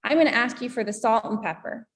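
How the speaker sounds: casual American accent with "and" cut to a little n; everyday American, connecting word reduced in "salt and pepper"; American English. Shown as a demonstration. Teacher asks you for salt and pepper in reduced American English. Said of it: "Now, in American English".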